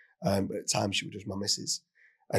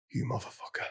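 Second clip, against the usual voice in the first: shocked whisper; 8 dB quieter than usual. Retold or imitated. Realising wrong woman grabbed.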